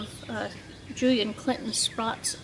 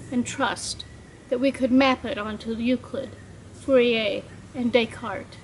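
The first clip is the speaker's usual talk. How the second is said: measured poetry recital, phrase by phrase; poem reading; 3 dB louder than usual. Acted. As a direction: read it as a poem, pausing at line breaks. Poet reads own poem aloud.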